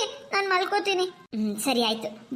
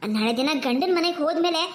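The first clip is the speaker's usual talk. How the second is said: a hint of a caring mother; gentle mother; 2 semitones lower than usual. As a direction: settle the girls down kindly. Mother lectures about evening naps.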